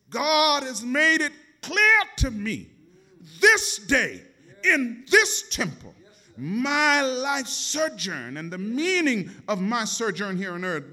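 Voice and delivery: high, slow, solemn sing-song; high drawn-out cry of mother, oh mother; young Jesus, earnest. Retold or imitated. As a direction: preach it like a boy earnestly explaining. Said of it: "Jesus answered her, saying".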